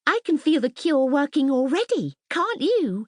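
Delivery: high, bright-eyed glee; excited. Acted. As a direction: bubble over with delight. Mirabel delighted in bath.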